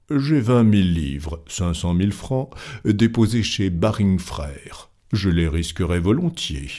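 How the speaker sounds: composed, unhurried statement; calm offer. Acted. Fogg turns to his colleagues, calm and composed. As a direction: state it evenly, no fuss.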